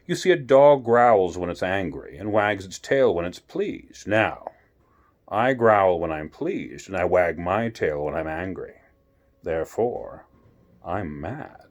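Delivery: a sly cat explaining his logic; Cheshire Cat. Acted. Cheshire Cat voiced by reader.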